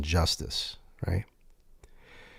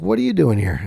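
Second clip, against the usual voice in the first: mock indignant attorney; 6 semitones higher, 3 dB louder than usual. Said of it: "She's like".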